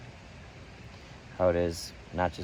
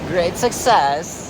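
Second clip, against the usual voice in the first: high, slow, drawn-out victory shout; triumphant cheer; 9 semitones higher, 5 dB louder, much slower than usual. Real, not acted. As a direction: stretch it out like a proud announcement. Celebrating a tricky river crossing.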